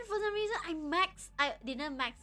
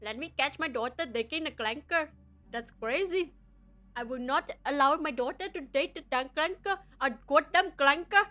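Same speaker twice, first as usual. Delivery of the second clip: put-on failed British accent, louder at the end; attempted British accent; 2 semitones lower, 6 dB louder than usual. Angry British father about his daughter's clanker date, failed accent. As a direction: try a British dad and miss. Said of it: "can I use my British voice".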